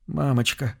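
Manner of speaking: quiet, far-off call for mother; faint inner cry. Acted. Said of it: "из самой глубины её мозга".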